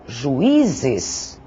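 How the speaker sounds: juízes said slowly, each syllable apart; slow, clear demo word. Shown as a demonstration. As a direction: spell out juízes slowly, ju-í-zes. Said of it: "o i deve ser acentuado, porque é um hiato". (juízes pronunciado devagar, sílaba por sílaba)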